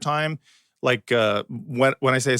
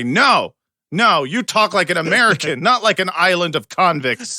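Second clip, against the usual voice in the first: emphatic, mock-outraged correction; mock parental scolding; 4 semitones higher, 4 dB louder than usual. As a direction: scold the kids for talking foreign. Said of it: "we're trying to say".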